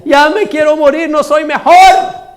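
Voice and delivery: high, slowing plaintive cry; mock tearful lament. Elijah wishes to die, mock weeping lament. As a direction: moan it with hammed-up self-pity. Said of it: "y lloraba".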